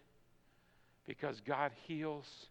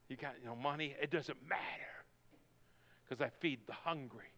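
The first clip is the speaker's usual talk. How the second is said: soft, partly whispered; hushed reassurance; 5 dB quieter than usual. Acted. Preacher voicing God to the penniless, hushed reassurance. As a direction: drop to a near whisper.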